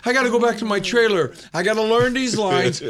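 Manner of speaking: high-pitched mock panic; retold freaking out. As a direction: list your worries in acted panic. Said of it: "I'm, like, freaking out in my mind, pure fear".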